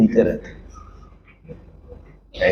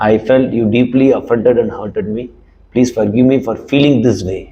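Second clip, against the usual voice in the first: very slow, deliberate apology; slow demonstrated apology; model apology; much slower than usual. Shown as a demonstration. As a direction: spell out each word slowly. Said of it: "models the apology words".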